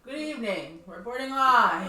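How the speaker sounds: lightly voiced TV reporter intro; news reporter voice. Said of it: "sound like a news reporter".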